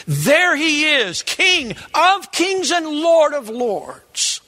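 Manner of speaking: high, slow, awed exclamation; awed praise. Pretend. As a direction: exclaim it in wonder. Quoting praise in heaven.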